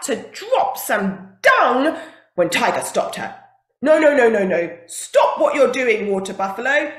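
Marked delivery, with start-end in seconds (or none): 3.8-6.9 loud, insistent no; firm loud stop. Acted. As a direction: call out to halt her. Tiger stops buffalo loudly.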